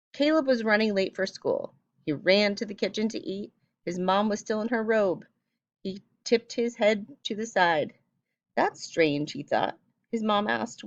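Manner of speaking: expressive read-aloud voice; story reading. Acted. Reads passage aloud.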